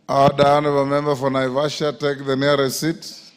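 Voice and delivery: loud call to order; shouting order. Real, not acted. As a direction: call the House to order loudly. Speaker calls member to order.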